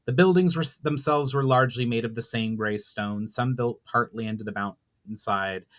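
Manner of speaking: measured storyteller reading a fantasy chapter; dramatic fantasy audiobook reading; story narration. A narrator's reading. Reads chapter aloud.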